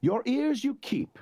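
high, slow, ringing declaration. Acted. Wesley ringing out at the prince, high and slow. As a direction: let it ring across the room. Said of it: "Wesley's voice rang across the room".

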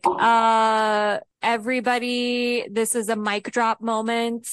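lightly voiced smug author showing off; a hint of a cocky poet bragging to everybody; Lewis Carroll boasting. Lewis Carroll mock-bragging to his readers, lightly smug. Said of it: "being like".

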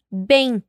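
bem said with a nasal final instead of Spanish bien; Portuguese bem. Shown as a demonstration. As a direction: say "bem" with one nasal vowel and no i glide. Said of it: "atención a la pronunciación de bien".

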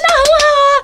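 approving mom. Retold or imitated. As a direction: mimic mom's approval. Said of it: "她说".

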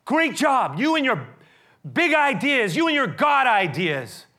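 loud, high, bitter sarcasm; sarcastic thanks. Acted. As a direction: throw the thanks back at him. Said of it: "they say".

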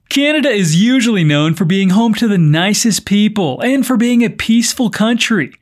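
measured podcast news delivery; news script read with clear phrasing. Acted. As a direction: read it out as a news story, evenly projected. Reads the news story.

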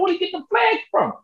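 high, puzzled question; amazed question. Retold or imitated. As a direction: wonder aloud where those came from. Retold amazement at stands.

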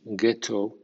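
"ghetto" with a hard g. Shown as a demonstration. Teacher showing GH can sound G, "ghetto" with hard g. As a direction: say "ghetto" opening on a plain hard g. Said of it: "G H puede sonar G".

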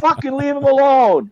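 high-pitched mock scolding; indignant defender. Ambulance driver defending him from the cop, high indignant scolding.

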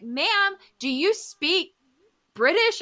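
mimicking her students asking innocently; imitating curious kids. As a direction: play the kids, eager and curious. Kids voiced asking teacher.

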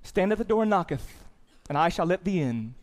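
slow, lofty, lightly put-on holy voice; a hint of stagey King James grandeur; mock Shakespearean Jesus. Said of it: "and he talks like this".

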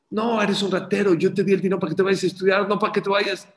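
hammed-up scolding; angry yelling. Merchant yells at the bagel seller, mock angry. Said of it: "Y le empieza a gritar".

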